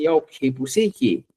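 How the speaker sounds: mocking taunt. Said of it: "a manera de burla, muchas veces dicen".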